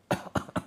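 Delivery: a pushed, deliberate cough from the chest; forced cough. Shown as a demonstration. Healer shows the group how to cough it out, forced cough. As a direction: push the cough out on purpose. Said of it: "Batuk-batukan sambil didorong".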